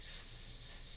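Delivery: long hissed S; snake-like hiss. Shown as a demonstration. Mocking his own S-heavy verse, a drawn-out snake hiss. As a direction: hold the S out like a snake. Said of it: "sound like a snake".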